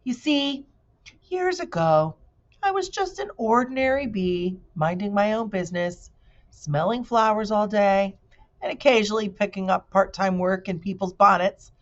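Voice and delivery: mild bee storyteller; lightly voiced bee. Bee character voice.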